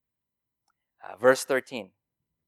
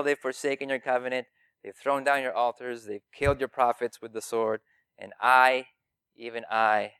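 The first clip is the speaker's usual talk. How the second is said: rehearsed complaint; 3 dB louder than usual. Acted. Elijah pleads his case to God, self-pitying. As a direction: whine it out, trailing off at the end. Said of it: "his rehearsed talk that he's giving to God".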